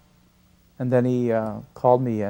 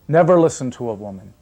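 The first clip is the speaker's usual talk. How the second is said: teasing; 5 dB louder than usual. Retold or imitated. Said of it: "kind of in a tease".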